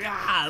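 short mock freak-out noise; retold freak-out cry. Fan imitating Bilbo freaking out in Rivendell, mock cry. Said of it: "he just freaks out".

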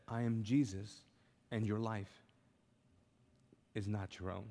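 low, hushed, with weighty pauses; solemn declaration. Retold or imitated. Jesus appearing to a frightened believer, solemn declaration. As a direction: speak softly and low, letting each phrase settle.

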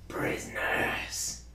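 drawn-out whispered goblin cry; bloodthirsty cackling goblin. Acted. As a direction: stretch it out like a gleeful goblin. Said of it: "in my goblin voice".

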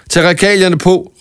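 rally the others; Lærke shouts to her friends, high and urgent. Acted. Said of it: "råbte Re-, Lærke".

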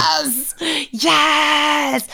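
mock triumphant yes, yes; triumphant cry. Retelling winning the gavel, triumphant mock cheer. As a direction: cheer like you just won the gavel. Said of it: "I felt very triumphant at that point".

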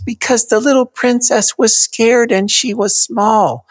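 small, high-pitched princess. Shown as a demonstration. Dad reading to a four-year-old, in a high princess voice. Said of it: "you need to do a princess voice".

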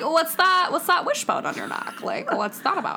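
pry about it theatrically; nosy curious voice. Retold or imitated. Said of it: "It's like".

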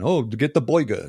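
imitated TV New York accent; mock New York accent. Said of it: "give them a New York accent".

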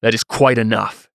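restrained, growled warning; soft growl. A narrator's reading. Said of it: "Cantarius growled softly from where he stood".

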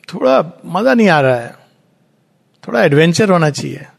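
rattled off fast, a bored soul wanting fun; eager soul. Acted. The soul tells the divine it wants adventure, in a fast eager rush. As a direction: rush it out like a restless child.

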